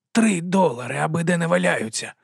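high-pitched, sulky whine; whining. Acted. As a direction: whine it like an aggrieved complainer. Aggrieved brother grumbles about lost money.

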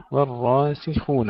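والراسخون with thin و and full dark ر; light waw, heavy raa. Shown as a demonstration. Tajweed teacher modelling for students, careful heavy ر in والراسخون. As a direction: open والراسخون lightly, thicken the را. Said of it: "ترقيق الواو وتفخيم الراء".

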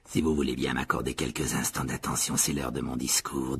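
low, formal public announcement; Nick addressing guests. A narrator's reading. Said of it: "dit Nick d'une voix forte". (annonce solennelle, voix grave)

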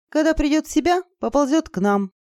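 high, strained utterance; speaking with difficulty. Acted. Izergil dreading the dragon's approach, labored. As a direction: force the words out. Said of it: "с трудом проговорила Изергиль".

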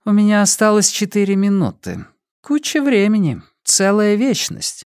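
high, unhurried woman's voice; villainess. A narrator's reading. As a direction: play the villainess high, savouring the time. Villainess continues her speech. (высокий неторопливый женский голос)

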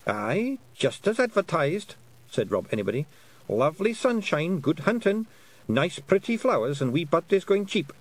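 high, bright Scots wee man; cheerful little Scottish warrior; cheerful Scottish pixie. Acted. Rob Anybody describes heaven.

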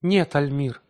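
high, loud noble pride; proud and dignified. A narrator's reading. Wife answers her angry husband: high, proud reply. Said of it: "с благородной гордостью".

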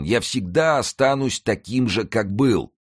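нищий с причитанием, намного выше; горько каяться в своей страсти; сетующий нищий. A narrator's reading. Beggar laments his avarice. (нищий сокрушается о своей скупости)

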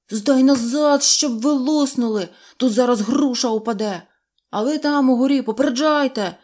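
loud, high, eager shouting of orders; bossing the little ones around with glee; excited commanding. A narrator's reading. Neznaiko yelling orders at the fruit pickers, excited and loud. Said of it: "з захопленням командував".

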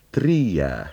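lightly mimicked shrill tern cry "triää"; imitated tern call. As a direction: give a mild imitation of a tern calling at its nest. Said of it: "Kalatiira huutaa esimerkiksi aina pesällään".

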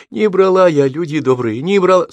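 high lamenting cry; desperate wailing. A narrator's reading. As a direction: plead with the crowd, wailing. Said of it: "отчаянный крик несчастной, безостановочно причитавшей". (отчаянное причитание)

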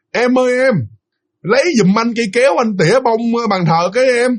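high-pitched call to someone downstairs. Retold or imitated. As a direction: imitate calling down to his wife from upstairs. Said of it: "nói là nói lớn lắm".

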